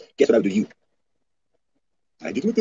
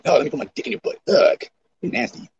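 mock pervert voice; 5 semitones higher than usual. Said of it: "don't never say that in my chat room".

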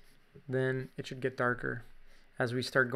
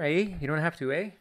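Canadian accent; 3 semitones higher, 3 dB louder than usual. Shown as a demonstration. Artist echoing own slip for viewers, Canadian accent. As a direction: show off a little Canadian accent. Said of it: "a little bit of my Canadian accent".

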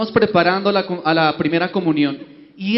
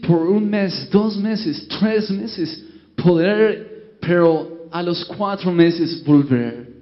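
put-on American accent; much slower than usual. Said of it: "habló el obispo de Estados Unidos".

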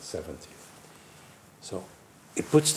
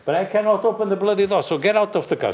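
urgent retold order; 9 semitones higher, 3 dB louder, faster than usual. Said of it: "I said".

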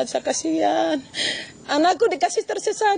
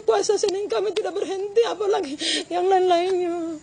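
crying; 3 semitones higher than usual. Real, not acted. Mother crying about her daughter.

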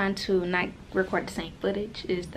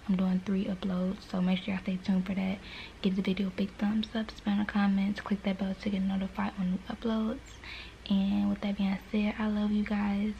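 whispering; 4 dB quieter than usual. Real, not acted. Whispers most lines, baby sleeping.

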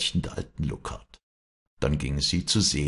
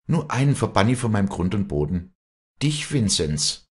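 raised, firm pronouncement; stern banishment; 5 semitones higher, 4 dB louder than usual. A narrator's reading. Walli banishing Vinzenz from her land, stern and firm. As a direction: pronounce it firmly, drawing out the final address.

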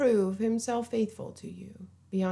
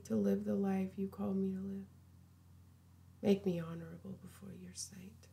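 soft, hushed prayer; 6 dB quieter than usual. Pretend. Preacher leads the listener in asking Jesus in, soft prayer. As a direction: pray quietly and simply, letting the voice sink.

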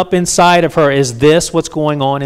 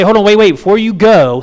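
mock urgent call; 4 semitones higher, 5 dB louder than usual. Mock Jesus halting woman.

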